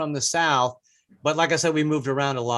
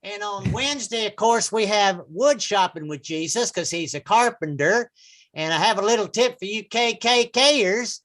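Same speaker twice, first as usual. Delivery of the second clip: radio program announcer; 4 semitones higher than usual. Acted. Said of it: "some interesting programs about Jesus".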